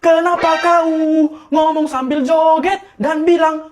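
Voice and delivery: singsong, stretched wording; copying odd delivery. Acted. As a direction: catch the other pupil's affected way of talking. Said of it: "kok jadi ikutan kau".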